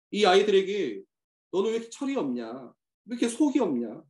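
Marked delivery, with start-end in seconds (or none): 1.5-4.0 put-on higher, fast exasperated nagging at a kid; quick, higher-pitched mock scold. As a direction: nag like a fed-up teacher. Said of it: "우리가 막 그런 표현들을 할 때가 있잖아요".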